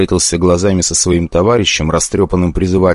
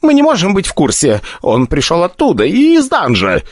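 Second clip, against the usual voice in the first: higher, frightened pleading; frightened summoner; 10 semitones higher than usual. Acted. The wounded summoner to Stronger, higher and frightened. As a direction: explain in a panic.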